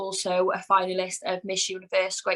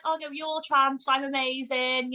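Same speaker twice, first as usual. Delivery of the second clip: smug heel character; 6 semitones higher than usual. Retold or imitated. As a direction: sneer at the fans as if you're above them. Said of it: "it's like my character".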